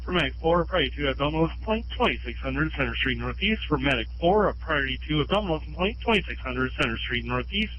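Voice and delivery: dispatcher voice over a scanner; ambulance radio. Real, not acted. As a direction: read the call out like radio dispatch.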